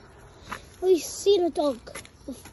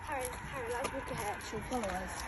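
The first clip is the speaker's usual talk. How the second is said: much softer, lower hush; 8 semitones lower, 14 dB quieter, faster than usual. Real, not acted. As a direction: speak low so the dog stays calm. Not to scare the dog.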